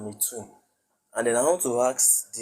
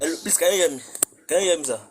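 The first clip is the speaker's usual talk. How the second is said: speaking up; 5 semitones higher, 3 dB louder, much faster than usual. Real, not acted. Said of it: "Speak out".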